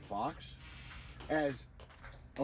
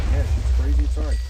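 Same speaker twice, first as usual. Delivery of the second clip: shouting; 16 dB louder, faster than usual. Real, not acted. Sudden loud outro.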